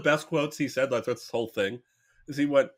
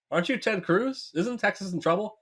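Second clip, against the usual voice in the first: puzzled passers-by; 6 semitones higher than usual. Acted. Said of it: "People go".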